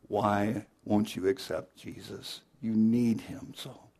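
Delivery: heavenly, angelic tone of voice. Telling how a beaten wife finally answered her husband through tears: angelic voice. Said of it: "she said in an angelic voice".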